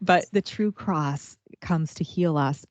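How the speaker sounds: put-on slow, light Ukrainian accent, quoting a priest; unhurried imitation of a Ukrainian priest's accent. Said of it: "in his Ukrainian accent".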